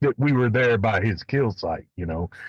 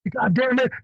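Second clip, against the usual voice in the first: retold cussing; 12 semitones higher than usual. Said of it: "He goes".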